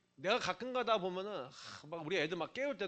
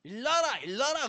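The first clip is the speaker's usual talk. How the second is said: mock Gyeongsang wake-up call; lightly voiced Gyeongsang mom calling the kids awake; 경상도 사투리로 깨우기; Gyeongsang dialect; 4 semitones higher, 3 dB louder than usual. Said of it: "경상도 사투리".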